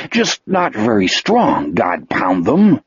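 slow, lightly voiced simple creature; lightly regretful character voice; Wolf, regretful. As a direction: draw it out, dropping low at the end. Voices Wolf, story figure.

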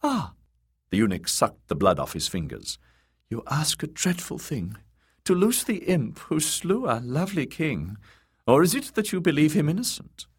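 high, silky eunuch voice; sly eunuch. A narrator's reading. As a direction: purr it high, probing. Varys sly reply.

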